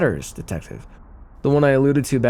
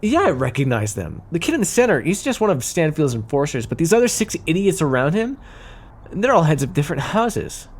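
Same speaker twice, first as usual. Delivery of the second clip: higher-pitched, affronted outburst; indignant at spotting traitors among them; indignant discovery; 3 semitones higher than usual. Acted. Spots own allies betraying them.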